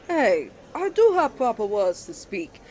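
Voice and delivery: ordinary delivery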